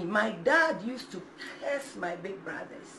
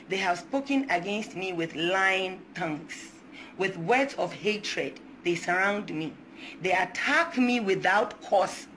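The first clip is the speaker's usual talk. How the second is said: scripture reading. Real, not acted. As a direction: read it like a prayer over the congregation. Reading Psalm 109 aloud.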